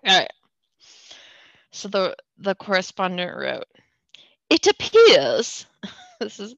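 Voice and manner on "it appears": bad British accent. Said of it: "sorry about the bad accent".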